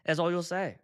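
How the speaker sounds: imitating a German friend; lightly put-on German accent; matter-of-fact mock German accent. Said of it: "he's got the German accent".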